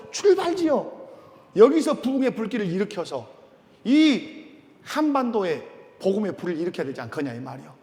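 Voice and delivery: 목소리를 높여 힘주어 외치는 설교. Real, not acted. (회중을 향해 힘껏 외치는 설교)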